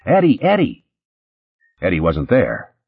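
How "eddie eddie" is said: high panicked shriek. Acted. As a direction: shriek the name in terror. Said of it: "shrieking at the top of their lungs".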